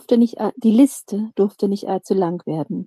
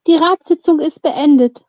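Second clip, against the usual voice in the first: lightly raised, announcing voice; mild calling out; 7 semitones higher, 6 dB louder than usual. A narrator's reading. Council leader declares the session over, calling out mildly. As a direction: call it out a little higher and louder. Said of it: "rief Kalia".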